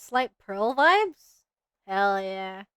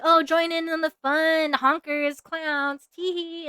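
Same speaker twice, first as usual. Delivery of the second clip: giggly clown voice; 5 semitones higher, slower than usual. Retold or imitated. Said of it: "it was, like, kinda like".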